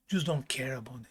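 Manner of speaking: whispered advice. Real, not acted. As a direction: whisper it like a secret.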